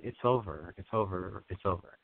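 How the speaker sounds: soothing repeated mantra. Shown as a demonstration. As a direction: repeat it gently, letting it die away. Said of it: "is all I'm gonna just keep saying".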